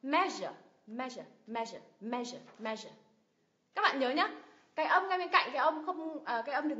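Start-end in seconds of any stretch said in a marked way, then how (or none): 0.0-2.9 "Measure" strong on ME, trailing into uh; schwa ending. Shown as a demonstration. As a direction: weaken the end of "measure". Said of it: "Âm thứ hai là xoa sao".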